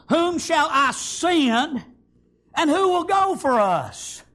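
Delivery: slow, drawn-out asking; requesting voice. Acted. The Lord asking who will go, a slow requesting voice. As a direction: plead gently with long, stretched words. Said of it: "It was a requesting voice, an asking voice".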